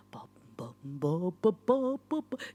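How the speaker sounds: calling Bob. Real, not acted.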